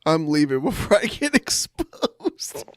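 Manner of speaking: plain retelling broken by one laugh; calmer quote with a laugh. Retold or imitated. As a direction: quote it almost plainly, laugh slipping in before exposed. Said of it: "I like how he's like".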